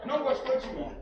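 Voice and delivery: laughing retelling. Retold or imitated. Father laughing as the baby turns away. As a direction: tell it half laughing at the baby's snub.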